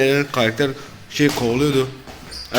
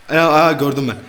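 nervous laughing alarm, louder; being chased; 3 semitones higher, 5 dB louder than usual. Real, not acted. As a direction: laugh in panic as it approaches. Monster coming, nervous laugh.

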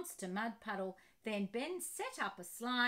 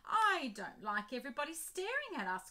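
complaining; 3 semitones higher, 4 dB louder than usual. Acted. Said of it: "complained Ben".

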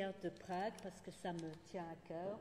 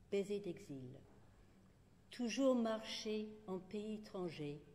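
short poems recited with spacious pauses; poetry reading. Acted. Poet ends with droll short kiss poems, measured recital. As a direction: announce each title, then deliberately place every line.

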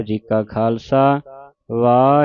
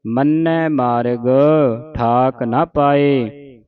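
slow, measured model recitation; scripture recitation demo; much slower than usual. Shown as a demonstration. Teacher showing congregation correct Japji Sahib reading, slow recitation. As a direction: recite it slowly for learners to copy. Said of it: "ਸ਼ੁੱਧ ਉਚਾਰਨ ਆਪਾਂ ਸਿੱਖ ਰਹੇ ਹਾਂ".

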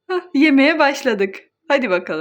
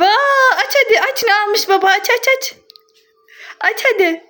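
excited; 6 semitones higher than usual. Real, not acted. Toddler opening a bag of groceries.

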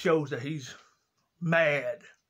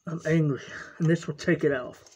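angry addict. Acted. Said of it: "the drug and alcohol addict".

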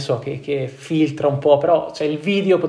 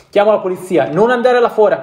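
put-on louder and higher, a scared girlfriend begging; frightened plea; 5 semitones higher, 6 dB louder than usual. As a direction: plead with rising panic. Girlfriend pleads in fear.

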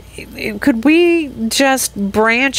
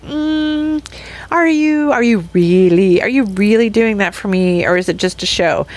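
skeptical. Retold or imitated. Voicing skeptical people.

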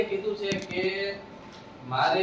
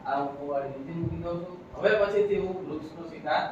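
remorseful promise; 3 semitones lower, 6 dB quieter than usual. Acted. Man repents softly to the tree.

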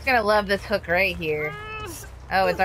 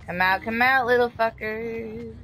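sing-song taunt; 4 semitones higher, slower than usual. Real, not acted. Killer hunting hiding survivors.

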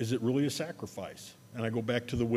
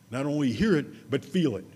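preaching emphasis; 6 dB louder than usual. Acted. Preacher builds the contrast.

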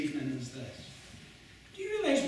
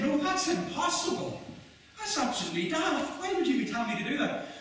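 much higher, imitating an incredulous crowd; mock disbelief, pitched way up; incredulous protest; 7 semitones higher than usual. Crowd rejecting an absurd offer.

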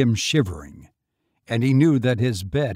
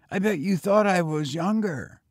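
put-on higher, eager boy voice; young boy; 7 semitones higher than usual. A narrator's reading. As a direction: pitch up for a street boy. Boy speaks.

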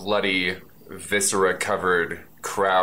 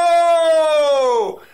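high shout; 9 dB louder than usual. Acted. Reaction to king exploding.

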